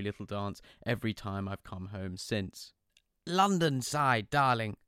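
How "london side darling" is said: high, bright fatherly phone voice; doting dad answering the phone; cheery dad. Retold or imitated.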